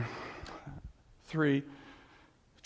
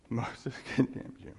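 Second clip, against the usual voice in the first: laughing; 4 semitones lower than usual. Real, not acted. Preacher repeats line laughing.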